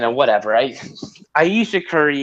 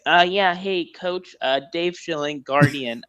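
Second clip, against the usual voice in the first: whiny little voice. Retold or imitated. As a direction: ask it in a small whiny voice. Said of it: "you hear my whiny little voice".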